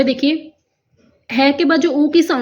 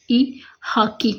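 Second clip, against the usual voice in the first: हाकी drawn out slowly, ending softer; slow spelling out; 3 dB quieter, much slower than usual. Shown as a demonstration. Teacher slowly modelling हाकी after spelling it. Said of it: "देखिए जैसे हमने लिखा".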